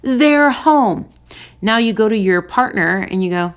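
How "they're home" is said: higher and slow, gushing puppy delight; excited dog. Pretend. Therapist voicing a dog that sees its owner come home, slow gushing joy. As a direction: stretch it out like a thrilled dog. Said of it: "your dog is showing you".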